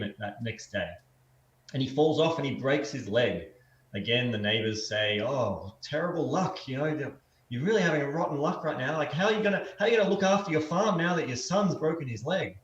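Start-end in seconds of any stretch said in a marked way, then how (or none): 5.2-12.6 higher, fretting neighbor; fussing neighbor. Acted. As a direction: fuss over the broken leg like a busybody. Neighbors lament in parable.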